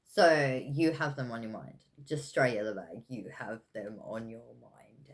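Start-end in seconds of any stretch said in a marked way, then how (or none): 3.1-5.1 soft breathy whisper. Real, not acted. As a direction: whisper it like a secret. Repeated in a whisper.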